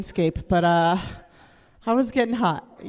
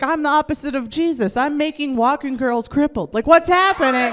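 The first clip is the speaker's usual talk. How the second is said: excited self-amazement; 4 semitones higher than usual. Acted. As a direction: marvel at yourself like a stoked boyfriend. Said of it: "he was excited".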